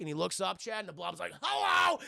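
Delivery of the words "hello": mock blob greeting. Blob voiced by streamer.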